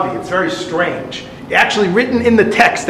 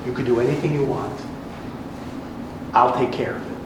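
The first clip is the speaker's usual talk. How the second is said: scheming queen; 6 semitones lower, 9 dB quieter, much faster than usual. Acted. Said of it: "And she says".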